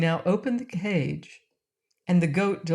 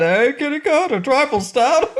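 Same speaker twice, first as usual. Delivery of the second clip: laughing; 9 semitones higher, 7 dB louder than usual. Acted. Fat king teasing himself.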